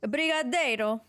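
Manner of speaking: brigadeiro said with a stray Italian accent; an accidental Italian lilt on brigadeiro. Real, not acted. Naming the Brazilian sweet, in an accidental Italian accent. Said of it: "why did I say that with an Italian accent".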